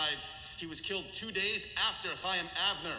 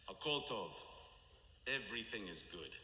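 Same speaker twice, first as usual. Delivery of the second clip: quiet calm reply; 6 semitones lower, 8 dB quieter than usual. Retold or imitated. Old mother answers at son's grave.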